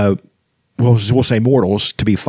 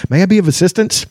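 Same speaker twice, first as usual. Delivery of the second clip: polite dragon; 8 semitones higher than usual. A narrator's reading. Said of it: "Kearsarge interrupted".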